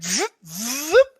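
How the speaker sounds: two quick imitated whooshes; whooshing zoop noises. She rips through spaceships, voiced as zooming sound effects. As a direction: make the sound of something zipping through.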